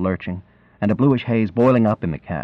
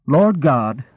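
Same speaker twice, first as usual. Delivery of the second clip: higher-pitched exclamation from a concerned countrywoman; lightly voiced rural woman, taken aback; exclaiming country woman; 4 semitones higher than usual. A narrator's reading.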